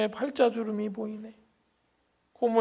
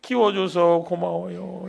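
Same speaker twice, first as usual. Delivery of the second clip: tearful thanks; 3 dB louder, slower than usual. Retold or imitated. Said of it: "울기 시작합니다".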